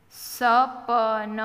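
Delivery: slow, each letter given its own vowel; sounded out. Shown as a demonstration. Teacher spelling a word for beginning readers, sounded out. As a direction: stretch સપન out as sa-pa-na.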